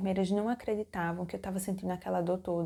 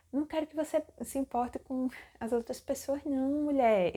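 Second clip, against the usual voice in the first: higher, emphatic imitated reassurance; imitated doctor; 5 semitones higher than usual. Doctor telling a patient not to mind others, emphatic imitation. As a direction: act out an insistent doctor brushing off worries. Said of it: "Ele falava desse jeito".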